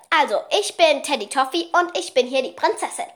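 bossy little princess guinea pig voice; lightly voiced pet princess; piglet voice. Shown as a demonstration. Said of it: "ihre Stimme ist, ist die hier".

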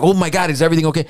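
rushed, mildly alarmed question; retold panic, tumbling out fast; worried son. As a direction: check on mom in a hurry. Retells alarmed callback to mom.

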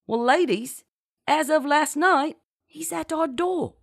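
high, lilting, colloquial bragging; triumphant boast. A narrator's reading. Genevieve reveals her pirate is at hand, triumphantly. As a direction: build gleefully to the reveal.

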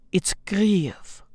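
"Kyiv" whispered as a soft kriv. Shown as a demonstration. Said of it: "You heard that?".

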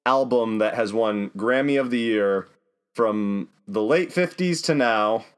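slow, drawn-out announcer voice; big booming radio host read. Acted. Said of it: "That sounded like a radio, like, announcer".

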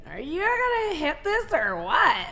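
acted impatient challenge. Woman mimicking her reaction in bed, acted impatience. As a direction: challenge an imagined partner, stretching the words. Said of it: "that's when you're like".

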